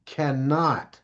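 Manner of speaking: "cannot" slowed and weighted; stress on cannot. Shown as a demonstration. Speaker warning parents about their child, stressing "cannot". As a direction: land slowly and firmly on "cannot". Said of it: "let me emphasize that word right there".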